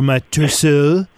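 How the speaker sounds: slow, hammed-up French; French accent. Shown as a demonstration. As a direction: stretch "torso" out in a French accent. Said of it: "say it in a French accent".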